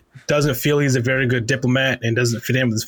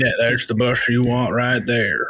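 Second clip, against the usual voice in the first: laid-back bus driver voice. Retold or imitated. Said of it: "the voice of the guy from the bus at Disney".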